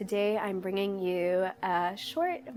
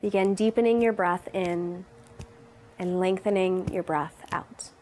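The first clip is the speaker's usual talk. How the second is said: calm, unhurried meditation guidance; guided meditation. Real, not acted. Yoga teacher leading viewers into breathing, in guided meditation style. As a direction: guide them gently, pausing between instructions.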